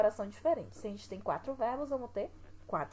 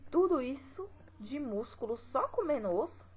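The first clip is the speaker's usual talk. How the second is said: incredulous question; 5 semitones higher than usual. Shown as a demonstration. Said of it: "Outra pergunta".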